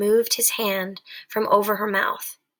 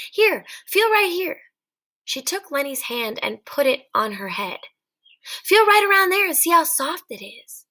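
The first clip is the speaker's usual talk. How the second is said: higher, eager invitation; coaxing; 6 semitones higher than usual. Acted. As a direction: coax him closer, voice raised. Coaxing Lenny to touch hair.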